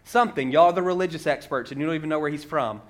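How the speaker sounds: mildly sarcastic retort; sarcasm. Retold or imitated. Healed man to the religious experts, with mild sarcasm. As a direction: retell it with a touch of mock admiration. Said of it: "you hear the sarcasm".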